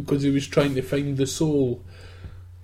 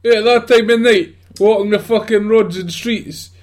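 louder, higher preachy condemnation; mock Bible dad; 5 semitones higher, 5 dB louder than usual. Judging the girl on the road, mock Bible dad rant. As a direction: rant like a strict religious father. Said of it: "You're like a total Bible dad".

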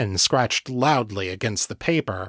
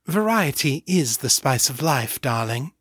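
Morgan's voice; 3 semitones higher than usual. Acted. Incubus teasing the agent in his lover's voice, lightly put-on sultry tone. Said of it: "imitating Morgan's voice".

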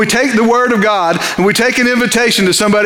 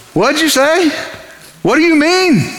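sleepy gatekeeper; 6 semitones higher than usual. Retold or imitated.

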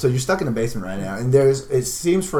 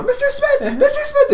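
screaming a name; 4 dB louder than usual. Acted. GM voices kids screaming name.

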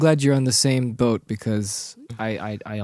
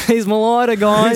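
orangutan voice; 7 semitones higher, 6 dB louder than usual. Retold or imitated. Repeats the orangutan joke.

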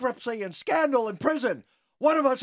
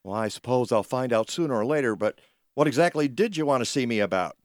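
put-on old miser voice; 9 semitones lower than usual.

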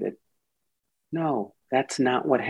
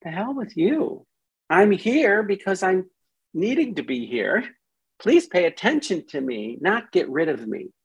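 higher, protesting and then pleading; a lightly voiced offended part; mild indignant part; 6 semitones higher than usual. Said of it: "the part is like".

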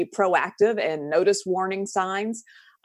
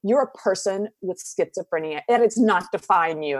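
mimicked correcting people. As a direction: imitate someone quick to correct. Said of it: "people without schizophrenia that if I say".

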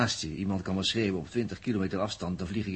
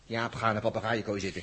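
laughing tease. Acted. Laughing teasing of Jaap.

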